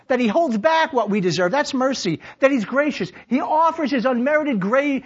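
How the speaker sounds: high, driving sermon delivery; rousing, declamatory preacher; full-force preaching. Real, not acted. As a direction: preach it out to the whole room.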